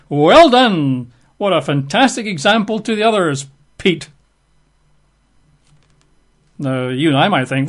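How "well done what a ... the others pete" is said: mock praise. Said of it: "and said to him".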